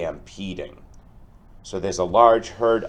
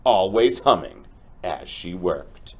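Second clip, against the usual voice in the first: lively storybook read-aloud for a class; reading to children. Acted. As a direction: tell the tale to the kids with expression. Teacher reads picture book aloud.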